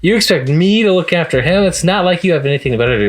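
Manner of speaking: high, snippy mom voice, then rattled off fast; mom's retort. Retold or imitated. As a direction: mimic a mom scoffing at her kid. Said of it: "That's what his mom says".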